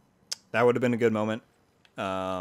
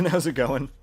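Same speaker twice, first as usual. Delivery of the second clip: high squeaky chipmunk voice; 5 semitones higher, 6 dB louder than usual. Pretend. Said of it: "Picture me in my chipmunk voice".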